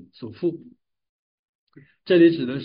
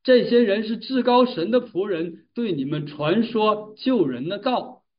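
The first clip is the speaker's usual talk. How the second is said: slightly raised, higher-pitched quote of a cry; a touch of calling out, kept within narration; mild retold shout; 5 semitones higher than usual. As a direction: lightly imitate someone calling out. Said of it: "她跟在保罗一行人身后大喊道".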